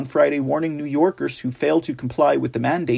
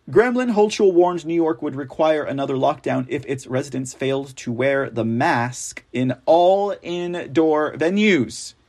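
normal talking voice

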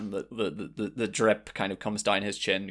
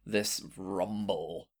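slow, measured narration with long pauses; game master's scene setting; slower than usual. Acted. Game master describing a giant creature's arrival, slow narration. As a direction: unfold the scene slowly, piece by piece.

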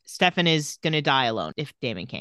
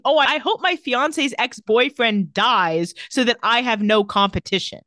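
slow, raised mock-earnest quote; mocking imagined thought; 4 semitones higher, 3 dB louder than usual. Podcaster mimicking a thought nobody normal has, slow and mocking. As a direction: draw out the absurd thought in mockery.

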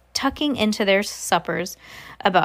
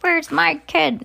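high, drawn-out mock demand; demanding parent; 9 semitones higher, 4 dB louder, slower than usual. Parent looking for missing child, mock demand. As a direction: play an upset parent, pitched well up and slowed.

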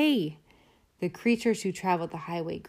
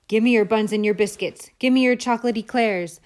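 bossy demand; 3 semitones higher, 5 dB louder than usual. Acted. Rat demands food.

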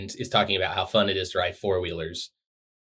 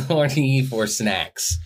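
slow, amused, drawn-out; laughing repeat; 4 semitones higher, much slower than usual. Acted. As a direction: savor it with a laugh. Savoring the phrase slowly.

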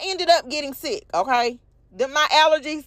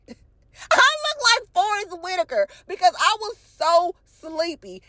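laughing through it; 6 semitones higher than usual. Real, not acted. Laughs at her own swollen face.

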